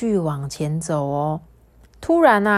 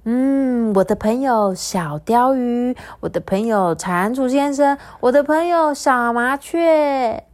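bouncy happy; 5 semitones higher, 3 dB louder than usual. Acted. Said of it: "嘟嘟香蹦蹦跳跳的说".

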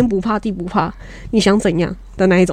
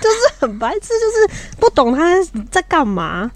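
higher, slow words through laughter; laughing; 7 semitones higher, slower than usual. Real, not acted. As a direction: talk while still laughing. Laughing while calling dad silly.

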